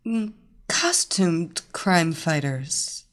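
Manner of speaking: slow trance-like intoning. Acted. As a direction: drone it out slowly, entranced. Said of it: "the beautiful blonde intoned".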